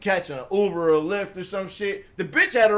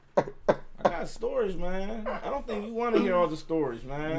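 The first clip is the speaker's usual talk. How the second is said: laughing; 7 dB quieter than usual. Real, not acted.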